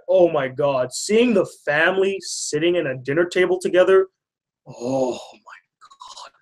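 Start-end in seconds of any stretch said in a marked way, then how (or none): 4.7-6.3 breathy, drawn-out near-whisper; hushed, long-drawn awe; overwhelmed. Real, not acted. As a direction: sigh it out slowly, overcome. Moved by the family scene.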